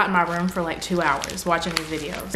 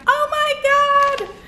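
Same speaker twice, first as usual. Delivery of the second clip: very high, slow, louder squeal of delight; 5 dB louder, much slower than usual. Real, not acted. YouTuber finding a birthday gift from a fan, high squeal.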